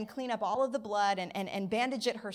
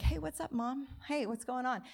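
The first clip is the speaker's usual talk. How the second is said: super suave; 3 semitones higher than usual. Retold or imitated. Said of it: "super suave and smooth".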